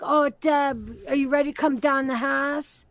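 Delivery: TikToker's Pittsburgh accent, loosely imitated. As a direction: mimic a guy role-playing in Pittsburgh accent. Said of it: "it's a Pittsburgh accent that he keeps doing".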